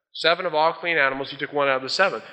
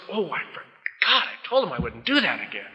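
mock forgetful God; 3 dB quieter than usual. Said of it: "it goes".

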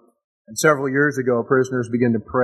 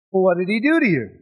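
angry Pharisee; 5 semitones higher, faster than usual. Acted. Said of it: "they're really mad".

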